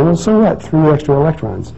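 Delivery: skeptical listener. Retold or imitated. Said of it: "Well, you say".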